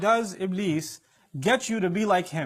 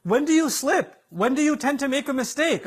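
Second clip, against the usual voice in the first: scheming devil; 6 semitones higher than usual. Retold or imitated. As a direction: ask like a spy sizing you up. Devils surveilling you.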